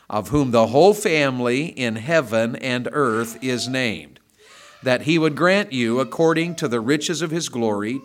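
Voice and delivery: measured, reverent Bible reading; scripture reading. Acted. Reads scripture aloud.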